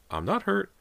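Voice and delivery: high-pitched reassurance, no extra volume; reassuring. A narrator's reading. Mother assuring her frightened son, reassuring. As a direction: soothe him in a high voice. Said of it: "Missus Fraser assured him".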